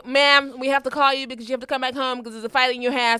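a light attempt at an American accent. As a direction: play an American caller, barely. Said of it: "That's my American accent".

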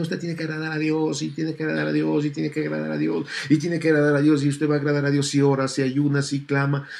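fast, mocking rattle of a demanding preacher; lightly voiced pushy preacher, hurried. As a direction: parody the preachers' endless demands. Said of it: "Porque los predicadores también".

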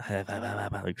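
garbled mock gibberish; weird babbling noises. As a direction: babble nonsense syllables. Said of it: "making those weird noises".

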